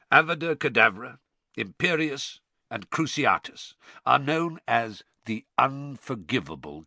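lightly voiced stern teacher reading a lecture; emphatic, lightly acted old instructor; stern professor.

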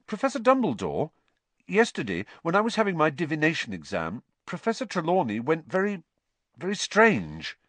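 put-on high, hesitant boy's voice; Harry, urgent. A narrator's reading. Harry tells the headmaster of the exam, high and urgent. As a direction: pitch it up, anxiously reporting.

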